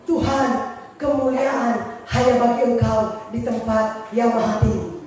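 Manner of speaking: low, slow, humble murmur to God; humble prayer. Shown as a demonstration. Preacher shows how he prays, in a humble low voice. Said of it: "kalau saya berdoa".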